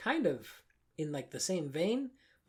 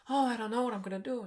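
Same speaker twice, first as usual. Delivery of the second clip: mock whiny Linguini; 9 semitones higher, 5 dB louder, faster than usual. Mocking Linguini's American voice.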